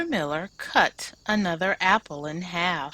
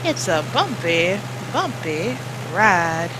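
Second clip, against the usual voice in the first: Mister Miller; 5 dB louder than usual. Acted. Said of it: "he said".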